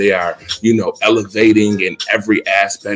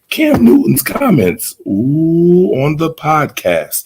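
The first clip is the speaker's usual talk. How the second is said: teasing hype; 4 semitones higher, 4 dB louder, much slower than usual. Real, not acted. Teasing a juicy topic.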